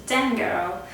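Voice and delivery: "Damn Girl" said in a playful put-on accent; mock accent. Vlogger repeating the mascara name for fun, sassy accent. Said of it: "I always need to do this accent".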